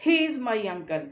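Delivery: "He is my uncle" with a loud push on HE; emphasised whole sentence. Shown as a demonstration. Teacher repeats the sentence stress example, emphasised. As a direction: punch HE, then carry the emphasis through "is my uncle". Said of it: "ये मैंने emphasise करके बोला".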